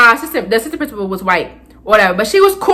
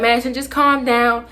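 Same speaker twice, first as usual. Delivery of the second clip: calming principal; 4 semitones lower than usual. Retold or imitated. Principal soothing student on phone to mom, low and calm. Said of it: "he calmed me down".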